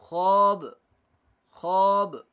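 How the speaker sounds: ख्वाब said loud and short as खाब, no वाव sound; ख्वाब with the वाव silent; demo reading. Shown as a demonstration. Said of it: "वाव को जाहिर करके नहीं पढ़ा जाता". (वाव पढ़े बिना ख्वाब)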